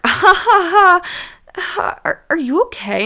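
mock laugh, then asks if she's okay; laughing principal. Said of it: "And he was like".

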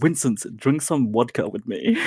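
imitated Ukrainian accent, laughing lightly; playful Ukrainian accent with V's as W's. Friend imitating a Ukrainian uni mate, affectionate Ukrainian accent. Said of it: "pronounces his V's like a W sound".

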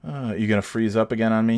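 normal talking voice

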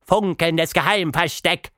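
a broken-speaking little mouse. A narrator's reading. Mouse answers.

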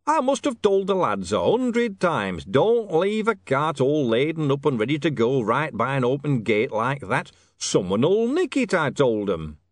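high, slow, loud complaint; king, loudly exasperated. Acted. Harry complains about his careless lads, exasperated. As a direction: grumble loudly for everyone to hear.

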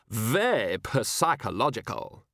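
put-on slow, flat child's repeat; flat little girl echo. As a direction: echo the phrase deadpan and slowly. Child repeats guest flatly.

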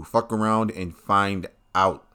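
slow, weighted "Fuck around and find out" with a falling end; slow emphatic motto. Shown as a demonstration. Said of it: "That is now your motto".

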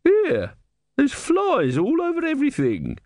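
very high female character voice; complaining woman. A narrator's reading. Woman inspecting the seller's tray, high complaining voice. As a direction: object sharply, pitched far up. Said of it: "she said".

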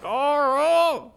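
high, loud Coral in a put-on southern accent; southern accent, call out Coral for Carl; mock southern Carl. Friend joining the Walking Dead meme in a southern accent. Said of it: "Carl always sounds like Coral".

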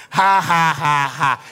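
loud, drawn-out mock laugh; deliberate forced laugh. Shown as a demonstration. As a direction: act out practising laughter. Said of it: "by the time you c-, see yourself doing".

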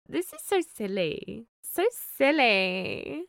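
mock-exasperated amusement; amused disbelief. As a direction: stretch it out as a giddy reaction. Acts out own delighted reaction.

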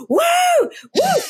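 whooping in mock celebration; sudden acted "woo" cheer; re-enacted cheer. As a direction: let out two retold whoops of joy. Re-enacting cheer on being evicted.

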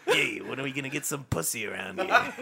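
lightly voiced Boston guy; a hint of a Boston tough guy; Boston accent. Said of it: "my dick has a Boston accent".

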